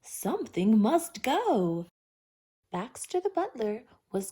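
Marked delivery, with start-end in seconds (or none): 0.0-1.9 breathy urgent whisper. A narrator's reading. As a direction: hiss it out in alarm. Willoughby alarmed by bent tree.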